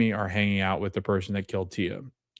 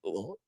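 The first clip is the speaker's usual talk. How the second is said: imitated yuck noise; disgusted groan; 2 semitones lower, 16 dB quieter than usual. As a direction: groan as if tasting something foul. Acts disgust at licking mustard.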